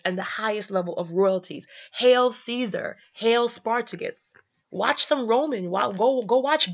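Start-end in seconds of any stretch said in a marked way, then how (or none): 1.9-4.3 drawn-out, grand hail; slow proclamation to Caesar; slow royal greeting. Shown as a demonstration. Proclaiming a hail to Caesar, grand and slow. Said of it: "Hail was the way you greeted".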